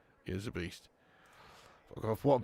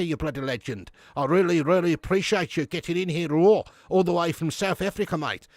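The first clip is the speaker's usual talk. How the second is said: put-on South African accent; 3 semitones higher than usual. Welcoming a viewer from Joburg, South African accent. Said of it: "that was a South African".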